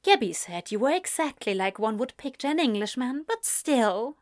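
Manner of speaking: lightly voiced American woman, quick; a hint of chatty American mom; brisk, friendly American visitor; chatty American mother.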